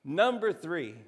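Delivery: loud countdown call; game-show host. Pretend. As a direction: announce the next rank like a host. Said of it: "kind of Family Feud style".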